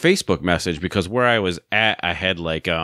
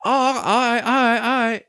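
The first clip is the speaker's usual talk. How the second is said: much higher, goofy stammer; stupid voice, stammering; slower than usual. Retold or imitated. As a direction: fumble for words in the disguised voice. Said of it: "I put on some stupid voice".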